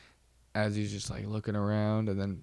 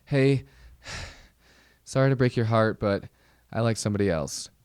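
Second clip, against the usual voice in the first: put-on breezy girl quote; 4 dB louder than usual. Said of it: "She goes".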